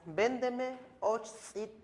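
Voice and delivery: véndeme osh said high and slow, like a shopper; mock buyer. Shown as a demonstration. Teacher plays a customer at the shop, slow and high. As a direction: play the customer asking to buy.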